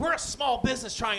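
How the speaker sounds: mildly voiced indignant complaint; mock yelling. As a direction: imitate her yelling, without much volume. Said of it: "She started yelling at me".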